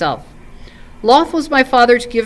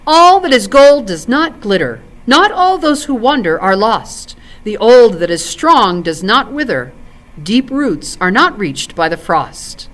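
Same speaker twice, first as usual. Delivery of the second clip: bursting out; 2 semitones higher than usual. Acted. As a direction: fling the poem out in indignant defence. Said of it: "he burst out".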